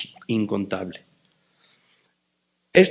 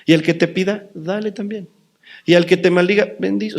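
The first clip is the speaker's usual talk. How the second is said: quoting Jesus; 5 semitones higher than usual. Retold or imitated. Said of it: "obrar como Jesús dijo".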